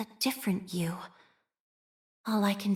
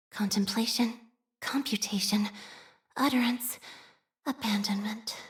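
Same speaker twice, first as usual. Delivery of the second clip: whispered litany. Acted. Chanting a litany of words.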